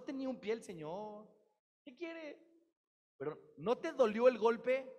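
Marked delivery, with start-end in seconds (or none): 3.2-4.9 high, loud pressing question; loud challenge. Acted. Preacher arguing with the listener, loud high challenge. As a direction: push back hard.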